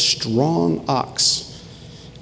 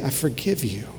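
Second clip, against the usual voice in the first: softer, soothing voice of forgiveness; gentle reassurance; 4 dB quieter than usual. Acted. Father forgiving his crying son, gently reassuring. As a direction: quietly comfort a hurting child.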